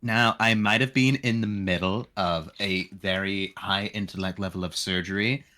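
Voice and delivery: a hint of a ditzy valley girl. Player voicing a doctor character as a valley girl. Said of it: "Valley Girl".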